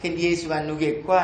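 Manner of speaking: low Jeju grandmother asking, rising end; Jeju dialect question. Retold or imitated. Grandmother asking her friend while weeding, in Jeju dialect. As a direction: ask it in lilting Jeju dialect. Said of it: "할망 둘이가 막 검질 매다가 합니다".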